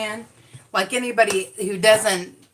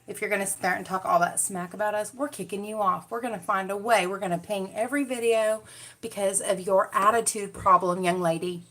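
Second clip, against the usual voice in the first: softer stern voice; lightly voiced disapproving YouTube rep; quiet mock YouTube staff scolding. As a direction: imitate a stern official threatening her. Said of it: "they're gonna be like".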